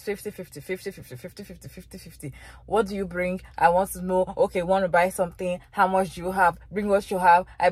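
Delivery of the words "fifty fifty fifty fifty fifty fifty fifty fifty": mocking refrain. Mocking men's refrain, fading.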